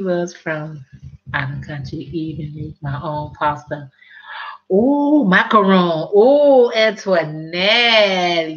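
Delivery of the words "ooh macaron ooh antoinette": hammed-up fake Italian accent, drawn out. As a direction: play a mock Italian, stretching the name slowly. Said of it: "that was a fake Italian".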